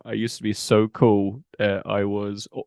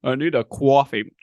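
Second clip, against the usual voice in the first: mock Boston accent; 4 semitones higher, 3 dB louder than usual. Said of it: "it's like".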